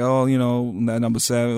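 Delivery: mock lazy-mouthed talk; lazy slurred words. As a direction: imitate lazily slurred Southern-influenced speech. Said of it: "being lazy with my words".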